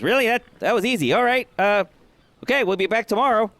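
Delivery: high, amazed and a bit giddy; can't believe it was that easy; surprised half-orc. Acted. Half-orc marvels at Mama Sass paying, voice jumping high.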